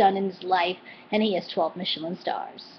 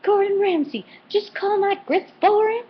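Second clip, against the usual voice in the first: put-on offended Southern accent; 11 semitones higher than usual. Vlogger imitating Paula scolding Gordon in Southern accent. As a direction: play the offended Southern lady. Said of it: "Paula took offense and was like".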